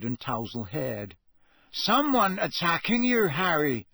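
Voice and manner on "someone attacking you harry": higher-pitched, lightly sleepy question. A narrator's reading. Seamus, just woken by the yell, asks Harry, mildly sleepy. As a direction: ask with a touch of sleepiness. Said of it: "Seamus asked sleepily".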